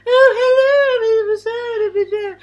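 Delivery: high, loud, plummy phone greeting; posh telephone voice. Retold or imitated. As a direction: put on your best telephone manners. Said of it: "put on a posh telephone voice like my mum".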